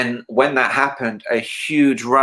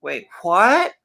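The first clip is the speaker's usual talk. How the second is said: higher, startled question; surprised Michael; 7 semitones higher than usual. Retold or imitated. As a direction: catch it in disbelief, pitched up. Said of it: "And he went".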